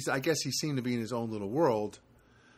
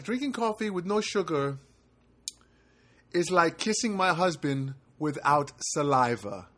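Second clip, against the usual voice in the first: put-on Spanish-accented woman, starting high then slowing; imitated thick Spanish accent; 3 semitones higher than usual. Manager comparing coffee to kissing her husband, imitated Spanish accent. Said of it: "in a very thick Spanish accent".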